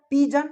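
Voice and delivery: पिजन said with a j sound; soft g. Shown as a demonstration. Teacher giving the correct form: soft j. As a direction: say पिजन with j, not g. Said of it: "तो क्या हो गया".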